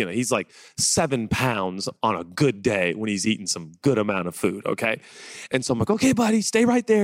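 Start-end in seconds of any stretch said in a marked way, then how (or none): 5.9-7.0 high, coaxing puppy talk. Retold or imitated. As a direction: gently tell the puppy to stay. Talking to puppy.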